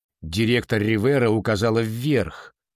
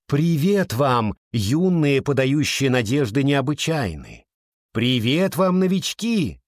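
ringing voice; 4 semitones higher than usual. Acted. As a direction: ring out over a crowd. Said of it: "зазвенел над площадью голос директора Риверы". (звонкий голос над площадью)

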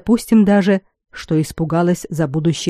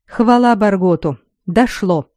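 snapping; 3 semitones higher than usual. Acted. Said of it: "рявкнул Малкольм".

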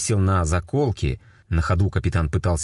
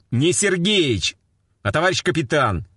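stern correction; 11 semitones higher than usual. A narrator's reading. Captain corrects form of address.

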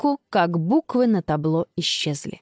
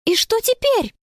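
dismayed; 13 semitones higher than usual. A narrator's reading. Stranded girls, despair.

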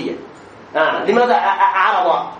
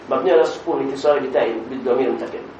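Azhari parsing style; 8 semitones lower, 4 dB quieter, faster than usual. Retold or imitated. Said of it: "فأنت أزهري".

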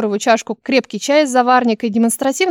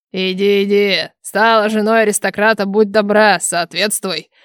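snide; 2 semitones lower than usual. Acted. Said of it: "ехидный голос Диара".

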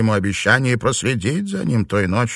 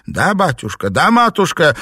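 frightened servants; 7 semitones higher, 4 dB louder than usual. A narrator's reading. Frightened servants answer in chorus.

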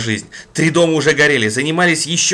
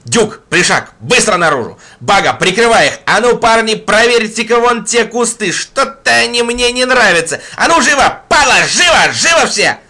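urgent loud commands to men; frantic shouted orders; 8 semitones higher, 5 dB louder than usual. Acted. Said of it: "Гурыня крикнул назад".

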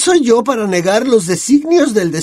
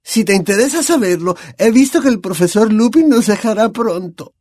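louder, rising to a high cry; raised seer's voice; 12 semitones higher, 4 dB louder than usual. A narrator's reading. Trelawney proclaims Lupin's fate across the table, voice raised. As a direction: build up her prophecy and raise the voice. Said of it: "elevó la voz".

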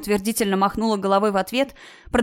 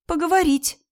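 sobbing; 9 semitones higher than usual. A narrator's reading. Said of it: "всхлипнула ещё громче Кира".

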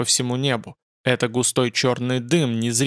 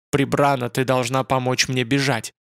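usual speaking voice

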